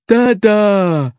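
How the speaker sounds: the caveman has decided, settling it; insistent Neanderthal. A narrator's reading. Neanderthal La claiming Larry as dad, firm fall. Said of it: "said La again".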